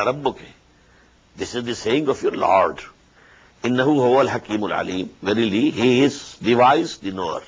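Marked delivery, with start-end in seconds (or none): 3.6-5.1 rapid Quranic recitation; quick recitation. Acted. Teacher reciting the verse quickly before explaining. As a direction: rattle off the verse briskly.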